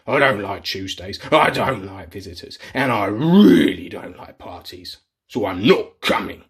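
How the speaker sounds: a hint of a sulky troll; grumpy troll. Grumpy troll refusing the party invitation.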